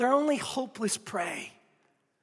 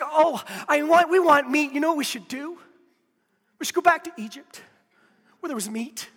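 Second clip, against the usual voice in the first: higher mock whine of grumbling Israelites; whiny complaining crowd; 5 semitones higher than usual. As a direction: whine like spoiled people craving meat. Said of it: "they're just like".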